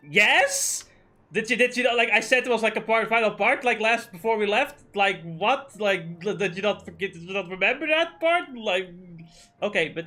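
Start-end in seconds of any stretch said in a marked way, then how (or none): 0.1-8.6 raised, louder disbelieving questions; incredulous retort. Retold or imitated. Asking his friend in disbelief, raised and incredulous. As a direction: act stunned she forgot the plan. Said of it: "I'm like".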